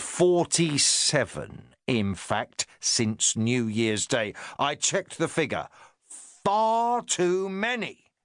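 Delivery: a touch of a self-important inspector; the inspector talking down to his sergeant, lightly pompous. Acted. Inspector leans forward to scold.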